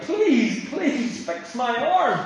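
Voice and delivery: slow, insistent begging plea; pleading. Retold or imitated. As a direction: drag out please fix my arm like a desperate king. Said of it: "Well, more like".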